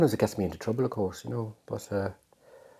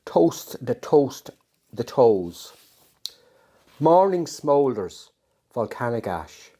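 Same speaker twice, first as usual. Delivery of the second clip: poetry reading; 2 semitones lower than usual. Acted. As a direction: savour each image as you read the poem. Reads his own poem aloud.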